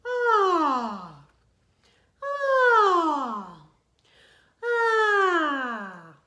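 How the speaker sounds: loud open yawn on ah; a teacher's demo yawn, loud and sliding; yawning sigh. Shown as a demonstration. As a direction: stretch the voice out in a big yawn. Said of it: "Just stretch out the voice".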